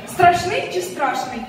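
"Страшний чи страшний?" drawn out slowly, both stresses clear; slow stress contrast. Shown as a demonstration. Quizzing a teacher, slow deliberate stress contrast. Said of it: "ви ставите правильно наголос".

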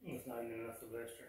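hushed so others can sleep; quiet whisper, trying not to wake anyone; library whisper. Real, not acted. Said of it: "I'm whispering because people are sleeping".

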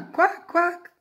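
high, loud quacks; cockerel's quacking crow. A narrator's reading. Parent reads cockerel trying again, loud high quacking. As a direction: squawk it out like a duck. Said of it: "So he tried again".

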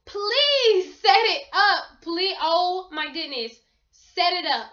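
loud, slow, drawn-out plea; pleading. Real, not acted. Urging viewers to set up Find My iPhone, loud slow pleading. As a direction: beg them, stretching every word.

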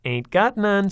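put-on high, loud little kid; plain-spoken tough kid; child's voice. A narrator's reading. Chaz answers her dad like a blunt little kid. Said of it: "said Chaz".

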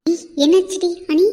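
startled, reaching for her sister; alarmed call. Acted. Sister sees Anitha collapse. (பதட்டத்துடன் உரத்த அழைப்பு)

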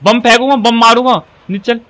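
real heat-of-the-game shouting; urgent ordering. Real, not acted. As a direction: chase them off with rapid repeated orders. Ordering someone downstairs in the game.

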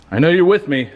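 calling to a spirit. Real, not acted. Investigator asks an unseen spirit to talk, calling out. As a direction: call out to someone unseen.

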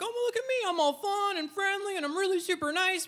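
very high, perky mascot voice; little mascot. Acted. Passive-aggressive comic acting all fun and friendly, high mascot voice. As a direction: put on a squeaky, super-friendly mascot front. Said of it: "I'm like a little mascot".

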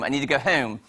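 imitating a Northern Pennsylvania accent, leaning on "home"; Kate Winslet's show accent. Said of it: "she says home".

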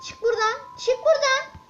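raging at the game, loud and high; angry shout. Real, not acted. Yelling at blocking rocks.

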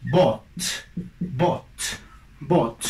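"bought" with a long open "aw". Shown as a demonstration. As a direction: model "bought" for students, open "aw". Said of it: "Entonces es buy, su pasado".

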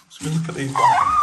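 squeaky high mock voice; silly high voice.

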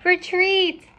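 high, stretched cry of command; storybook captain crying out; captain's cry. A narrator's reading. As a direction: call the crew off in alarm. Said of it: "the captain cried".

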